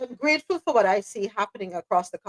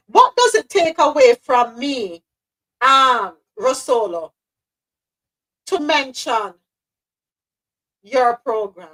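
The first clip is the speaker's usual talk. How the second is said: emphatic slow challenge; 5 dB louder, slower than usual. Acted. Asks why not support others.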